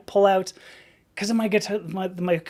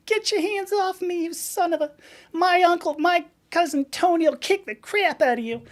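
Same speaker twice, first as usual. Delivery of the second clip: hammed-up gangster voice threatening; mock tough guy; 10 semitones higher than usual. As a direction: threaten like a cartoon mobster. Acted angry quote, mock tough guy.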